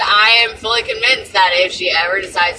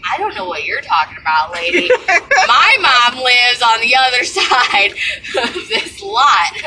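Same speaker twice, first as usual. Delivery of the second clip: laughing dismissal; 5 semitones higher than usual. Retold or imitated. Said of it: "I was like".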